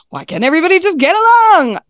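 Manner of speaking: high, exasperated plea; fed-up mom begging kids to get along. Retold or imitated. Mom pleading with squabbling kids, exasperated. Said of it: "So I was like".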